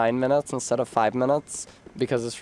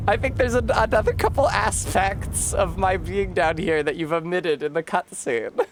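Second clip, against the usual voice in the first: higher ditzy voice; bimbo voice; 7 semitones higher than usual. Acted. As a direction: play the airhead complaining sweetly. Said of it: "I'll do a bimbo voice for nine minutes".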